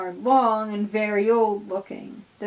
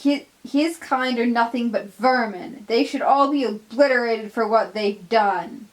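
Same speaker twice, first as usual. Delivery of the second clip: hateful snap; 2 semitones higher, 5 dB louder than usual. Acted. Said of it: "Donald snaps".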